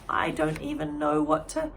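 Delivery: trailing off teary. Acted. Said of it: "her voice trailed off".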